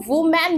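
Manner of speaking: वुमेन with a rounded "wu" first syllable; wrong pronunciation. Shown as a demonstration. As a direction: say वुमेन with "wu", as learners do. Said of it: "जो कि बिल्कुल गलत है". (वुमेन का गलत उच्चारण, "वु" के साथ)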